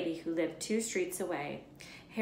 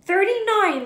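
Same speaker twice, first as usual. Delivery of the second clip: put-on high, loud child counting it out; slow counting boy; 10 semitones higher, 12 dB louder, slower than usual. A narrator's reading. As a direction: work the sum out slowly. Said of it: "he said slowly".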